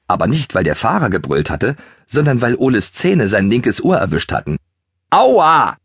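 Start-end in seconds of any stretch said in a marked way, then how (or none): 5.1-5.8 high, loud squeal of pain; squealing ouch. A narrator's reading. Schoko squeals when Ole bites his ear, high and loud. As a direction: yelp as the ear gets bitten. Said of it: "quietschte er".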